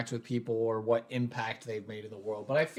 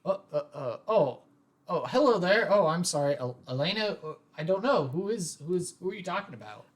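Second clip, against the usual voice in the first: higher, hesitant voice of a shy student; shy new student; 5 semitones higher, faster than usual. Acted. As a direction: stammer it like a shy newcomer caught off guard. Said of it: "I'm, I'm shy".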